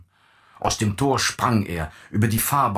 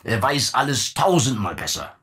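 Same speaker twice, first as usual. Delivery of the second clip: exclaimed; 4 semitones higher than usual. Acted. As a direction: call it out in triumph. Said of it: "rief er".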